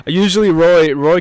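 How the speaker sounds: laughing, out of breath and panting. Real, not acted. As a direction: gasp it out winded and laughing. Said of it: "I'm out of breath".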